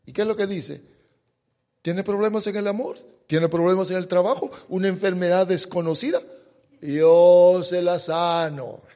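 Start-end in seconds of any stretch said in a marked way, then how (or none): 1.8-8.8 mock TV shaman ad. Preacher mocks the TV shaman's ad for the church, fast and singsong. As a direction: parody a TV healer's pitch, ending in a singsong. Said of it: "Le voy a llamar al chamán ese".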